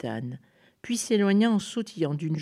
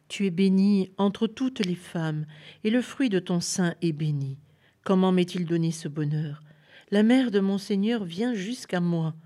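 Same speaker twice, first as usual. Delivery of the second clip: solemn assurance; 3 semitones higher, 4 dB louder than usual. Acted. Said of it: "avec assurance, comme si elle lisait dans un livre".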